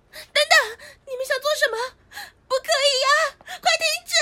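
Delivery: alarmed protest. Acted. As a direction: cry out to stop them. Trying to stop the kiss.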